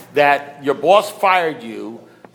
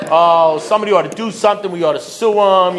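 louder mock-indignant group member; rally the pity party, hammed up; mock outrage on their behalf; 3 semitones higher, 5 dB louder than usual. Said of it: "have a giant pity party".

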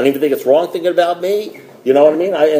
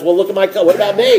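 self-pitying whine; 4 semitones higher, faster than usual. Retold or imitated. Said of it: "all I'm thinking about is".

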